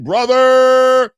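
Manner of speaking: shouted high and loud; loud call. Real, not acted. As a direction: call him out hard. Calling out the Haneys.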